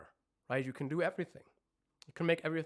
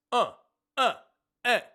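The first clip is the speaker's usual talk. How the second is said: vowel demo; 8 semitones higher, 13 dB louder than usual. Shown as a demonstration. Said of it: "these vowels".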